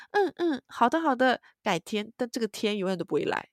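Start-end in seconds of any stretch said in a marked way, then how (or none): 0.1-2.1 mock Korean politeness. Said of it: "韩国人很爱说".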